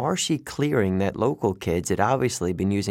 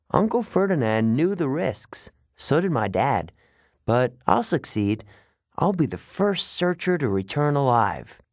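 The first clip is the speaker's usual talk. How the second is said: higher, resolute satyr voice; determined satyr; 4 semitones higher than usual. Acted. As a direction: swear it to yourself. Grover vows to succeed.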